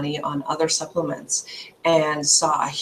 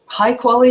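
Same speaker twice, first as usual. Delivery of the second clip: "High quality" hit a little louder and higher; stress on high quality; 6 semitones higher, 6 dB louder than usual. Real, not acted. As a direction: lean firmly on the words "High quality". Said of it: "I stress the word high quality".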